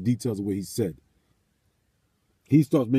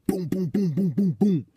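high, booming knock sounds; imitated door banging; 5 semitones higher than usual. Telling of banging on the door, imitated booms. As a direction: pound out the booms like a fist on wood.

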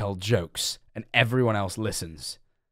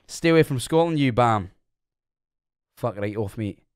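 lightly put-on Scottish accent, mock tough; a playful Scottish telling-off. Streamer warning a heckler off Scotland, mock Scottish accent. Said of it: "you wouldn't know that I was not fae Scotland".

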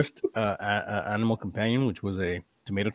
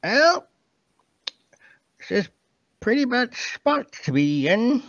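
pixie voice; 13 semitones higher, 3 dB louder, slower than usual. Acted. Tiny pixie creature speaking.

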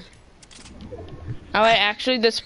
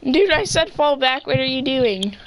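exasperated shout; 4 semitones higher than usual. Real, not acted. Scolding teammate mid-fight.

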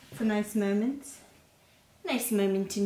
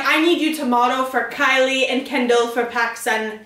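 put-on a rough, slightly louder Trump accent; Trump impression; 4 dB louder than usual. Friend quoting Kylie in a mild Trump accent. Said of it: "I did Trump's accent".

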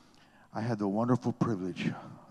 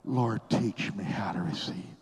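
mean it, press it out; with passion. Shown as a demonstration. Preacher asks the crowd to pray it with passion. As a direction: lead the prayer a touch more fervently. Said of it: "Oh, say it with passion".

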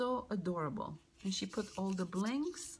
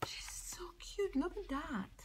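breathy hushed coo over the card; whisper; 8 semitones higher, 3 dB quieter than usual. Real, not acted. Whispering to viewers about a cute card, hushed. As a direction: whisper it like the card is too precious.

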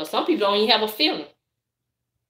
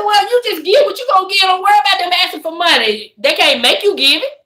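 retold retort; 10 semitones higher, 5 dB louder than usual. Retells own retort to complaining friend.

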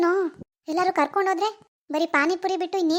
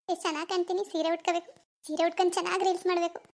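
self-admiring murmur; 6 dB quieter than usual. Acted. Admiring herself alone.

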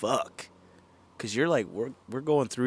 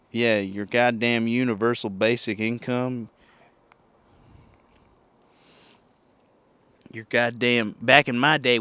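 bitter boomer rant; 2 semitones higher, 5 dB louder than usual. Pretend. Ranting as a future boomer.

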